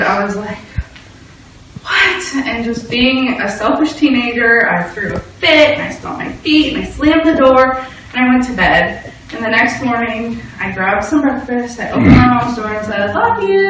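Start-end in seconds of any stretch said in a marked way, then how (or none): 1.8-2.4 high, outraged What; a teen's stunned What; disbelieving yelp; shocked disbelief. Retold or imitated. Finds show not recorded. 13.1-13.7 curt goodbye. Retold or imitated. Curt goodbye while angry.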